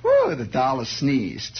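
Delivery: put-on thrilled kid. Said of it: "You know".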